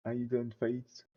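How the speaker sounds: slow English name in a French accent. Real, not acted. French YouTuber recalling the English set name, French accent. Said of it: "Excusez mon super accent".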